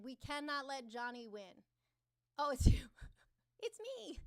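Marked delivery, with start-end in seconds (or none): 2.4-4.2 very loud, high excited squeal; light up at a friend arriving; delighted greeting. Real, not acted. Streamer greeting a familiar viewer, loud excited squeal.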